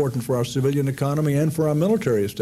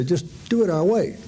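higher, brusque mock order; mock bossy American; 6 semitones higher than usual. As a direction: dismiss their worries like a bossy ally.

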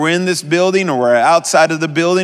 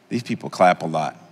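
bemused thought; 11 semitones lower, 6 dB quieter than usual. Retold or imitated.

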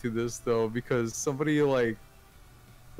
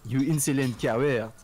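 exaggerated French accent. Shown as a demonstration. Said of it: "the French, French pronounced sentence".

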